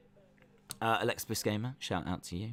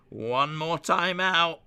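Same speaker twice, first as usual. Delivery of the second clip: raised, stretched warning; mock warning; 4 semitones higher, slower than usual. Streamer warning chat of one timeout left, mock ominous. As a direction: announce it slowly, pitch climbing.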